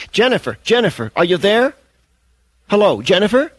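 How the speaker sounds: urgent calling out. A narrator's reading. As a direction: call her name anxiously. Host calling after hung-up caller.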